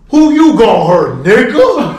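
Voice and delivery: loud, high-pitched taunt; acted-out drunk challenge at normal speed; belligerent challenge. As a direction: throw it back as a loud dare. Drunk player challenges the narrator.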